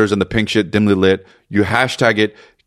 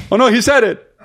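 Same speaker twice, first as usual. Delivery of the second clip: laughing; 10 semitones higher than usual. Real, not acted. Laughing at what was said.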